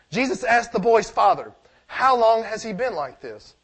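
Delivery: measured Bible reading to the congregation; preacher reading scripture aloud. Acted. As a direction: read the passage out steadily.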